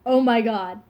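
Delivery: stunned and touched; overwhelmed gasp. Retold or imitated. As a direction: let it burst out in disbelief. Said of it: "and I was just like".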